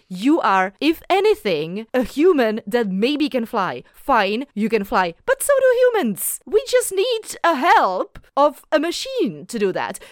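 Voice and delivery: really fed-up scolding of a character; angry rant. Real, not acted. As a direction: tell Amenadiel off in real frustration. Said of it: "I got really mad".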